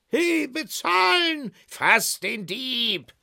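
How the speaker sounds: high, loud yell at a thief; high-pitched outraged cry; angry shouting. Acted. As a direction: holler for payment and raise the alarm. Angry creditors rage at cave door.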